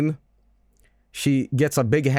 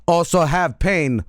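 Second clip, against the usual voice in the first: Shadow; 3 semitones higher, 3 dB louder, slower than usual. Acted. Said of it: "Shadow's like".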